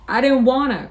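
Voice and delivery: high, loud protest; distressed cry. A narrator's reading. Lenny upset at having hurt Curly, crying out. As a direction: wail it in distress. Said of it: "cried Lenny".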